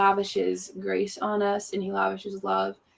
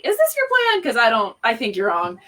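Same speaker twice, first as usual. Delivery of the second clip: hammed-up Job demanding answers; indignant Job; 2 semitones higher, 4 dB louder than usual. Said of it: "It was like".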